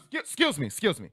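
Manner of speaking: high-pitched pestering call; outlandish mom. Retold or imitated. Mom flagging down store staff, outlandishly insistent. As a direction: squawk for attention, very high. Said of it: "My mom's an outlandish human being".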